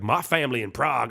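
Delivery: badly faked New York accent, drifting Southern. Tour guide to visitors, badly faked New York accent. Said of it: "very, very thick New York accent".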